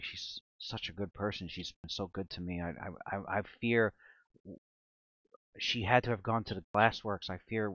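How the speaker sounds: soft, halting worried plea; quietly fear for a good friend, hesitating. Acted. Voicing worried character about missing friend.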